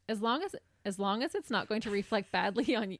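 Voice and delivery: words breaking into laughter; fighting back giggles; laughing. Real, not acted. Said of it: "No, you can't laugh".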